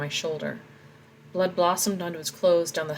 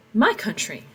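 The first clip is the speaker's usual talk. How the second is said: indignant cry; 3 semitones higher, 5 dB louder than usual. Acted. Tomas defying soldiers at border.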